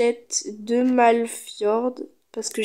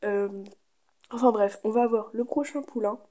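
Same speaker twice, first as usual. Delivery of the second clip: morning voice. Real, not acted. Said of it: "J'ai la voix du matin".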